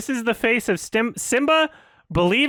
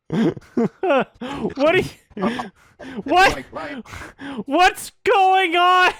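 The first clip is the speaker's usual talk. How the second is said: exasperated disbelief; 6 semitones higher, much slower than usual. Real, not acted. Baffled at the clip.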